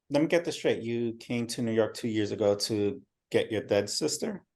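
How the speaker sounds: gentle, understanding questioning; good cop. Acted. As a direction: soften it like a friendly cop. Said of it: "Good cop".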